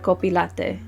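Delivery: coffee name in a light Korean accent. Shown as a demonstration. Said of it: "just with an accent".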